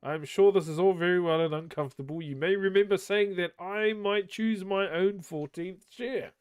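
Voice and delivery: fast nervous Bilbo. Acted. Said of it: "said Bilbo".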